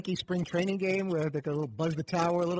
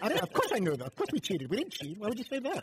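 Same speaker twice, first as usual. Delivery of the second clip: Martin Short liar; 3 semitones higher than usual. Retold or imitated. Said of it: "that S N L Martin Short character".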